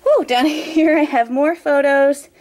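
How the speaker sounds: breathless, puffing through a laugh; catching breath between words. Real, not acted. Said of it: "sorry, I'm out of breath".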